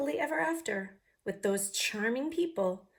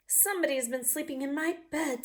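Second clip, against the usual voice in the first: mommy voice; 6 semitones higher than usual. Acted. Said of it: "said the mommy person".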